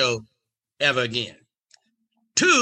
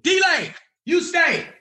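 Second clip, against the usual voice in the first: booming security guard; much slower than usual. Retold or imitated. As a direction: clear the room with authority. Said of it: "security speaks".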